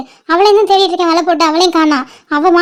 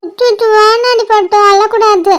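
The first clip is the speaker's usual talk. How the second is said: put-on slow, cooing hush to a crying baby; drawn-out tender fussing; soothing baby talk; 2 semitones higher, slower than usual. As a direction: gently coax the baby not to cry.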